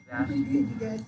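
high squeaky creature cry; creature squeak. Acted. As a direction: squeak the name like a baby creature. Voicing baby Pokemon's first word.

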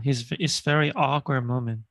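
very slow, every word clear; slow model reading. Shown as a demonstration. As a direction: read it word by word for learners. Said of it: "teacher reading slowly".

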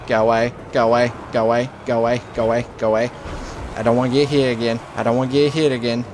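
fast, repetitive, monotone panic; quick repeated plea under attack; rapid pleading. Real, not acted. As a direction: rattle it off like a frantic mantra.

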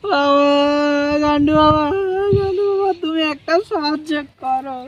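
mock-tearful begging; whining plea. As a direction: beg the guru like a woeful husband. Beaten husband begs guru for help.

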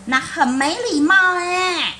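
high-pitched, fast scolding mother voice; a shrill exasperated mom telling him off. Acted. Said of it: "他妈妈说".

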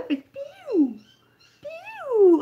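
high, bird-like chirping peep; chirping tweet. Pretend. Imitando o pio do filhote. (piado agudo de filhote)

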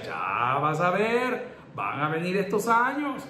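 head pastor's warning. Retold or imitated. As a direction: drag out the first words like a seasoned elder. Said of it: "el pastor general me decía".

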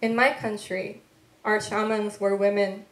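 measured, unhurried poetry voice with weighted pauses; poem reading. Acted. Poet reading her work to an audience, measured and deliberate. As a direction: let each line land like a spoken poem.

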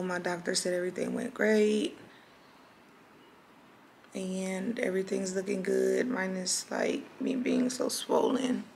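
hoarse after surgery; raspy voice. Real, not acted. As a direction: speak through a raw, raspy throat. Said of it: "my voice is, like, really raspy right now".

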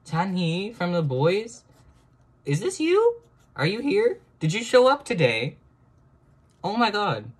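high, loud squealing questions; excited squeal. Real, not acted. Greeting her drawing as Chanhee, high excited squeal.

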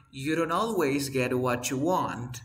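slow clear model line for repeating; model sentence. Shown as a demonstration. Teacher models the sentence slowly for the class to repeat. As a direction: say it slowly so students can copy it. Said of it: "Repite después de mí".

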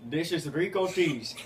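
lightly voiced fake manager, barely off his own voice; prank caller Rico Tees. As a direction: play the straight-faced store manager. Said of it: "the character I will be playing in the prank call is Rico Tees".

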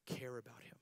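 soft, hushed and tender; softened to a whisper. Real, not acted. Preacher softening to a whisper about Jesus' compassion, hushed. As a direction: whisper it like a secret.

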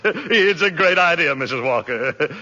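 chuckling through the words; tickled, laughing as he talks; laughing delight. Acted. Macy laughing with delight at Mrs Walker's idea.

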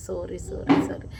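quick whispered apology; hushed sorry so the recording isn't spoiled. Real, not acted. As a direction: breathe the sorries out, no voice. Apologises while recording voiceover.

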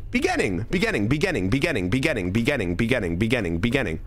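"beginning" with a "bee" first syllable; insistent run of bee-ginning; own pronunciation. Shown as a demonstration. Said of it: "You go beginning".

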